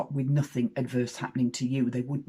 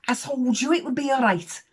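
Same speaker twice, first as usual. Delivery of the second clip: higher-pitched retold young lady; young lady's little voice; 9 semitones higher, 3 dB louder than usual. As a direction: mimic a chirpy I-told-you-so from down the bus. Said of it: "this little voice at the other end of the bus".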